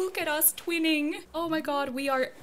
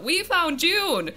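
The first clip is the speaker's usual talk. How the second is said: high, loud, slowed-down cheer; real victory cry; triumphant shout; 5 semitones higher, 7 dB louder than usual. Real, not acted. Gamer announcing the find to viewers, triumphant shout. Celebrating the successful villager hunt.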